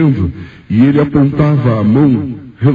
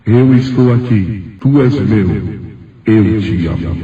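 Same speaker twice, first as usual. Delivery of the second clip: a hint of God speaking, unhurried; lightly voiced divine voice; slower than usual. God claims and loves Salomão, slow solemn voice. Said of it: "saiu uma voz que dizia".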